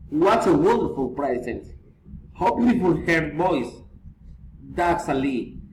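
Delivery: exclamations gliding down to their ends; falling intonation. Shown as a demonstration. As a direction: let "present" and "voice" drop at the close. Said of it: "Feeling intonation".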